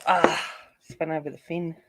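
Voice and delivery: usual speaking voice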